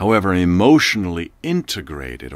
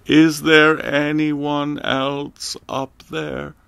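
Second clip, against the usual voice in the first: weak and terrified; 8 semitones higher, 3 dB louder, much slower than usual. A narrator's reading. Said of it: "in a weak, terrified voice".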